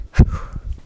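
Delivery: heavy breath out; breathless sigh. Real, not acted. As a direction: exhale hard, winded. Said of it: "Sorry, I'm out of breath".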